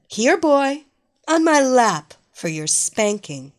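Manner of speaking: loud, bossy mistress orders; commanding dominatrix. Acted. Evelina summons him.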